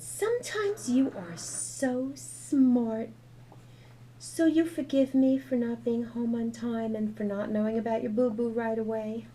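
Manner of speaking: tender mom. Acted. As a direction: ask your wise daughter's forgiveness. Mother asking child's forgiveness.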